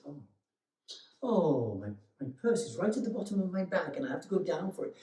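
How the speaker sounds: put-on flustered old lady. Old lady fumbling at supermarket till.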